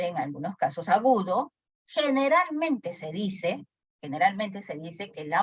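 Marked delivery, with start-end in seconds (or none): 1.9-3.7 high, slow and drawn out; first take of the repeated phrase, slow and high; slow emphatic take. Shown as a demonstration. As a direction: stretch it out to stress the point. Teacher restates point slowly.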